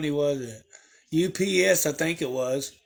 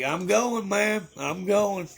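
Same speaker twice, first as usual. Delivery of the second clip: higher, mock-meek backing off; meek retreat; 5 semitones higher, slower than usual. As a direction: pretend to scurry away politely. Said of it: "I'm like".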